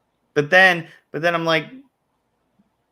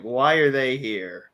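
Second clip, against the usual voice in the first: slow, mildly suspicious questioning; slower than usual. Retold or imitated. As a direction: imitate a wary reaction, drawn out. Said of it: "Like, I'm suspicious".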